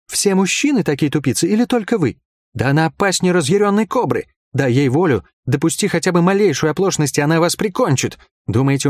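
narrator's high-voiced outraged woman; indignant woman. A narrator's reading. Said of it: "возмутилась Лайен".

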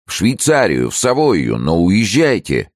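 high, insistent exclamations; urgent plea. A narrator's reading. Friend naming refuges to the ruined man, urgent plea. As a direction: press him hard to get away.

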